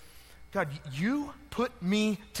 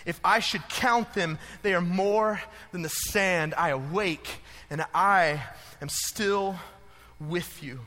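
scripture reading. Acted. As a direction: read the psalm like a prayer. Scripture reading over music.

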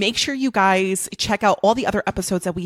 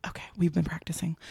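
whisper; 6 dB quieter, faster than usual. Real, not acted. Playful aside before the sign-off.

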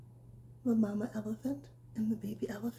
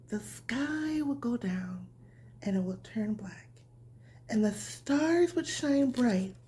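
bedtime story reading; slower than usual. A narrator's reading. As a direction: read it gently like tucking a child in. Reads bedtime story to children.

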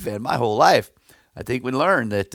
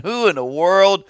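higher-pitched retold scoff; mocking taunt; 5 semitones higher than usual. Goliath taunting young David, retold as high-pitched mockery. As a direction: imitate an overconfident warrior's jeer. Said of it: "taunting him and mocking him and saying".

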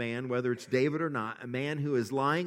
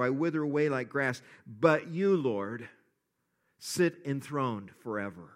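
measured, earnest reading of a psalm; scripture reading. Acted. Pastor reads the psalm to his church, earnest reading.

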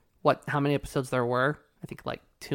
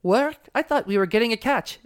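put-on old lady voice; 7 semitones higher than usual. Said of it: "Muriel's like".

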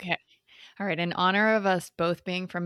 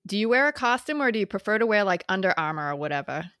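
put-on Boston accent. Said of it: "in my best North Shore Boston accent".

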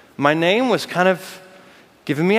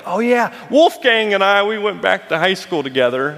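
name-dropper; 2 semitones higher than usual. Pretend. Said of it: "like drop a name".

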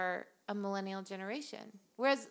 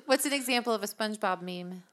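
dictating; faster than usual. Shown as a demonstration. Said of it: "I'll dictate the questions".

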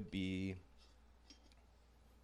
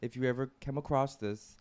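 ordinary talk

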